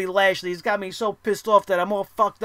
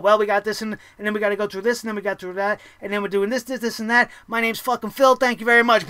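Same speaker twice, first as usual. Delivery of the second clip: nervous speed reading; faster than usual. Retold or imitated. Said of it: "he just speed reads through his whole presentation".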